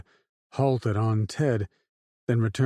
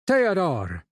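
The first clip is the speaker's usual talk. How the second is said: a name belted out, raised high; 9 semitones higher, 3 dB louder than usual. A narrator's reading. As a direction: belt the name out to the crowd. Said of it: "Rando belted out".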